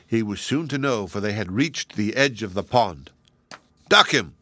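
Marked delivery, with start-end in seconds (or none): 3.9-4.3 louder gleeful cry; gleeful shout. A narrator's reading. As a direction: cheer for the dunking. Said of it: "shouted the little red apples in glee".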